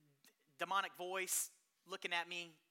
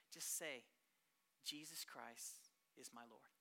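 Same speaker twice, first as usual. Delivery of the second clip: soft, slow, low command; calm slow coaxing; hushed gentle instruction; 7 semitones lower, 9 dB quieter, slower than usual. Retold or imitated. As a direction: coax her quietly. Calmly coaching possessed girl.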